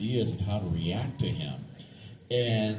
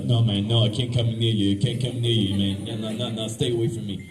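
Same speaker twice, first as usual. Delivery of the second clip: mock fear. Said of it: "deathly afraid of clowns".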